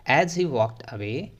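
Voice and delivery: very slow, word by word; slow read-aloud. Shown as a demonstration. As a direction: read it out slowly for the class. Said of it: "कैसे पढ़ोगे?".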